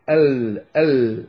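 ال with the L held on the tongue; isolated, sustained ل in ال; Lam articulation demo. Shown as a demonstration. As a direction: say ال alone, prolonging the final L. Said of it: "كيف ننطق اللام؟".

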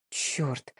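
a low hushed curse; quiet curse. Acted. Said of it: "тихо выругалась я".

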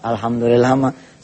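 soft, low dutiful reply; hushed, obedient child's voice; meek. Acted. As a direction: answer mother meekly, dropping pitch and volume. Meek child answers mother.

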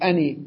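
"أني" ending in a long i; ana with ya. Shown as a demonstration. Teacher showing students the pausal form with ya, pronounced "أني". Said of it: "ولو كانت كسرة لقلت".

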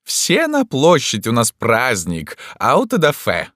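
high, slow, proclaiming call; rally everyone to a festivity from afar; shouted summons. A narrator's reading. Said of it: "закричал издали император".

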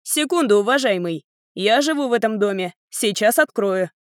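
polite shout to the visitor; mild call to the man outside. Acted. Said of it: "Он повернулся к двери и крикнул".

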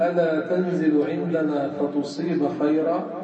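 slow, careful recitation with "فتصيب" in the subjunctive; slow example reading. Shown as a demonstration. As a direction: spell it out slowly for the class. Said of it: "فبنقول". (قراءة بطيئة للمثال)

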